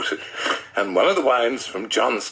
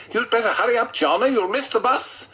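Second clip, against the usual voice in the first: wife's voice; 11 semitones higher than usual. Acted. Narrator voices wife Janet.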